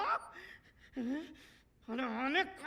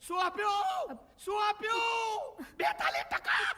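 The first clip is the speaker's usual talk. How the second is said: furious shout; 8 semitones higher, slower than usual. Acted. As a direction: explode at the son over his marks. Father raging over 42 percent. (બેતાલીસ ટકા પર પિતાની ગુસ્સાભરી બૂમો)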